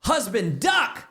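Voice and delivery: high, comic call to take cover; mock warning cry. Teasing about the hitting prescription, mock alarm. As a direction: jokingly cry out as if about to be hit.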